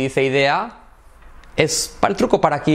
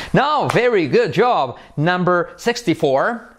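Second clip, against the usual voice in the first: higher, slow, stretched announcer-style call; upbeat announcing; 6 semitones higher, slower than usual. Real, not acted. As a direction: announce it high, drawing out each word. Countdown announced like a show host. (anuncio animado, agudo y alargado)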